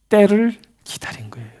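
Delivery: hushed, almost a whisper; whispered answer. Real, not acted. Preacher whispering the answer to the congregation. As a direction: breathe the answer as a secret.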